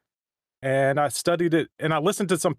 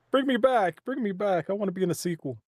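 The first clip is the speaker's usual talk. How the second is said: high-pitched little plea, tailing softer; mock pleading; 3 semitones higher, 3 dB quieter than usual. Voice actor begging to be brought back, mock pleading. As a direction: beg half in jest.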